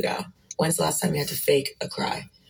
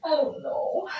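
put-on high whimpering baby; whiny fake crying; 11 semitones higher, 3 dB quieter, slower than usual. Girlfriend whimpers to boyfriend, high and whiny. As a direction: whimper it like a sulking child. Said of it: "handle these adults like children".

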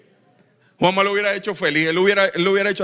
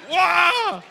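cheer; 11 semitones higher than usual. Retold or imitated. Lone fan cheering for the enemy.

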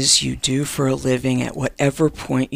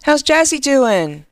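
cooing; 10 semitones higher, 4 dB louder, slower than usual. Real, not acted. Cooing to caller about dog.

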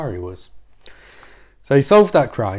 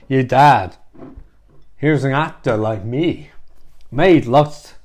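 Chris Walken. Acted. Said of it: "That's the terrible impression".

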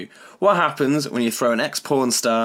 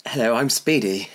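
put-on English accent. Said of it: "Do your English accent?".

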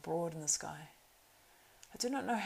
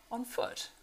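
high, breathy gasp of disbelief; can't believe they ran so far; astonished cry; 7 semitones higher than usual. A narrator's reading. Eomer amazed the travellers came on foot, breathless and high. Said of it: "cried Eomer".

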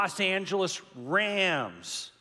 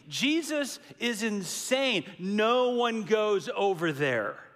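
high, louder panicked disciples; alarmed protest; 7 semitones higher, 4 dB louder than usual. Retold or imitated. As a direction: rattle off the objections in mock alarm. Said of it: "This is what they're thinking".

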